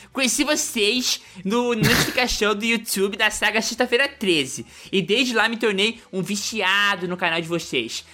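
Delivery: reading the e-mail in a put-on Rio accent; mock Carioca accent. Reading a fan's e-mail aloud, mock Carioca accent. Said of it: "O teu carioca é uma coisa impressionante".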